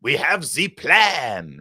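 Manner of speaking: slow, mocking drawn-out "We have the plan" with a cackle; mocking Kamala Harris. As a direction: ham up her giggly delivery. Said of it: "she laughed at herself with her cackle".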